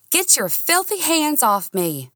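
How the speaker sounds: high, sharp angry cry; furious recoil. A narrator's reading. Woman shaking off her ex's grip, high furious cry. Steely pulls away from Nick.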